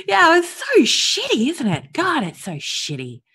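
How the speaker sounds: tearful, voice breaking high; speaking through tears and laughter; teary. Real, not acted. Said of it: "I get a bit teary".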